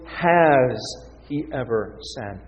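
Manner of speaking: "has" drawn out and set apart; stress on HAS. Real, not acted. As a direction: lean on "has" and pause after it. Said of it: "That perfect tense".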